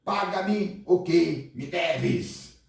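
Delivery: very slow, menacing demand; threatening demand. Acted. Servant chokes his co-worker demanding payment, slow and menacing. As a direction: spell out each word as a threat. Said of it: "agarrando-o, o sufocava".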